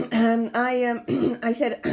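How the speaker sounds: an embarrassed aristocrat stalling for time; caught-out lord stammering through coughs; flustered bumbling lord. A narrator's reading. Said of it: "Lord Hastings coughed".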